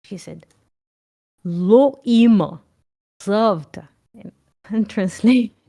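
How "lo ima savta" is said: put-on slow, stern Russian accent; an old Russian granny scolding the seller, in a Russian accent. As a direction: correct him in a heavy Russian accent. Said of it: "I will say in Russian accent".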